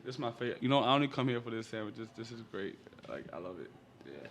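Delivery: talking with a mouth full; words round a bite of chicken; eating crunchy fried chicken. Real, not acted. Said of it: "Let me take a bite of this chicken".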